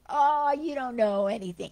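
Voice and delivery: loud dismissive jeer; scornful heckle. Retold or imitated. Heckler dismissing the Buddha, mock loud scoff. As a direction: brush him off with contempt.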